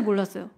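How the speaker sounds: "몰랐어요?" asked with a rising question tune. Real, not acted. Teacher quizzing children, a rising question. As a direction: put the choice to the class as a question.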